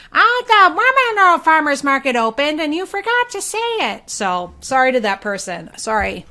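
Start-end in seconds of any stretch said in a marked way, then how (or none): 0.1-4.1 higher, louder teasing yell; pitched-up playful mock shout. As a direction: play an annoyed listener shouting at the speaker. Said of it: "somebody's yelling to their Bluetooth speaker".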